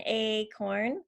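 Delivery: "acorn" with a clear "ay" start; long A. Shown as a demonstration. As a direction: stretch the first vowel of "acorn" as "ay". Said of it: "the two sounds are".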